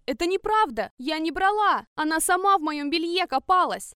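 loud, high, desperate protest; girl denies the theft, loud desperate cry; desperate denial. Acted. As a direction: shout your innocence.

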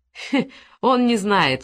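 slow, mocking chuckle in the voice; smirking. A poacher mocking his accomplice's denial with a slow smirk. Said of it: "усмехнулся Зуев".

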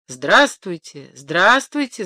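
slow, burbling greeting; bubbling water. Acted. A hint of boiling water greeting the rooster, bubbling. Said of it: "заклокотала вода в чугунке".

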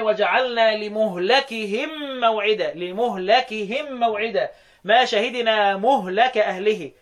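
لمهلكهم recited slowly as li-muhlakihim; damma on the mim. Shown as a demonstration. Teacher reciting the majority reading, slow damma on مهلك. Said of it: "مين اللي قرأ كده؟".

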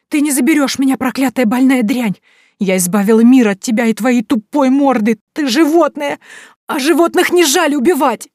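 loud, high, spitting venom; hysterical hateful scream. A narrator's reading. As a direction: scream hatred through fear. Caroline screams at ghost. (истеричный злобный крик)

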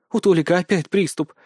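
usual speaking voice

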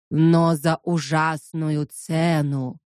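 slow booming cry; loud soapbox ranting. Acted. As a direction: proclaim it like a preacher. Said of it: "от его зычного возгласа". (громкий возглас проповедника)

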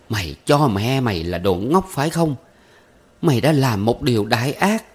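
a touch of clenched, seething fury; teeth-gritted anger. Acted. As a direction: spit it through gritted teeth at her son. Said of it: "Bà Cử nghiến răng".

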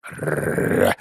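low rolled dog growl. Acted. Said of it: "зарычал пёс".

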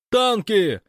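high, loud and delighted; even merrier shout. Acted. Fyodor repeating the news to Gosh, merrier shout. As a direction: crow the one word with glee. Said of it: "крикнул Фёдор ещё веселее".

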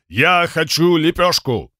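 dog voice. Acted. Dog head speaks.

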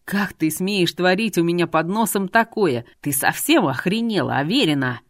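understated angry rebuke in a man's part; mildly heated, hammering the accusation; anger breaking through. Acted. Artur rebukes Irina for scheming under his nose, angry. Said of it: "Гнев наконец-то прорвался".

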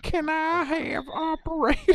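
high, slow hillbilly drawl; squeaky mock hillbilly caller; hillbilly accent. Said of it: "in a redneck accent".

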